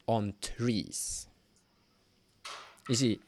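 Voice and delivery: slow, suspenseful narration with weighted pauses; slow ominous storytelling; game master's scene setting. Acted. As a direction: draw out each detail to build dread. Game master describing the discovery.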